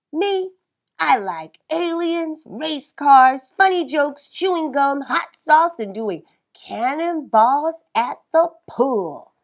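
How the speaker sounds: put-on high, eager boy listing; high excited rundown of likes. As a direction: list favourite things with glee. Narrator boy lists favourites.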